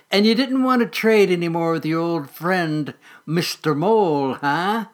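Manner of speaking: lightly voiced sly mole, coaxing; wheedling old mole. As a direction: coax the little squirrel, mildly menacing.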